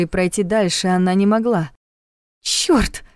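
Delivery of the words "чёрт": curse. A narrator's reading. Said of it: "выругалась Саша".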